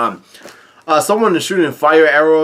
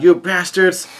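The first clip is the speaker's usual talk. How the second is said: higher-pitched mock shout; mild retold yell; 5 semitones higher than usual. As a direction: exclaim it like an indignant hero, without shouting. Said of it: "Luffy yells out".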